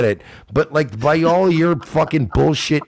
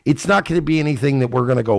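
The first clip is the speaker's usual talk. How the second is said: ordinary delivery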